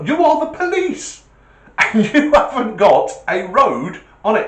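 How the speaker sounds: high, loud, half-laughing outrage; can you believe these people; exasperated disbelief. Real, not acted. Complaining to the audience about the police, high and exasperated.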